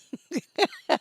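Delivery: high, staccato giggling laugh; amused laugh. Real, not acted. Looking at a whining baby picture, amused laugh. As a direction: burst into high chuckles.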